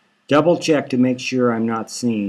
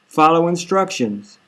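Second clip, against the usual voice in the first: a touch higher, pleading firmly; tearful insistence; 4 semitones higher than usual. Acted. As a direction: urge him through tears. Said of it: "She's sniffling".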